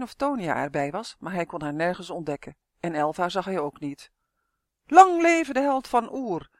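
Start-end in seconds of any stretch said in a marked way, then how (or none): 4.9-6.5 loud, slow jubilant cheer, pitched up high; a cheering crowd's slow, drawn-out shout. Acted. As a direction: hail the hero at the top of your voice. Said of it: "riep de menigte".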